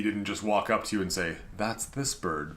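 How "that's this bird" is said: put-on Spanish accent. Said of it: "but in a more Spanish accent".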